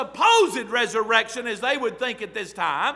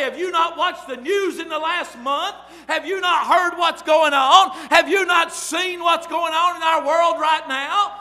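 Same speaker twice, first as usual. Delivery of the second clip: higher, building to a shout; exasperated rising retort; 4 semitones higher, 3 dB louder than usual. Retold or imitated. Preacher to a clueless questioner, building exasperated shout. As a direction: pile on each question louder.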